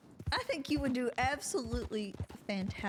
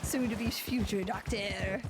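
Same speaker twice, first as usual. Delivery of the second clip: put-on French accent; 3 semitones lower than usual. Player introduces the medic to a horse, French accent. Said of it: "in such a French accent".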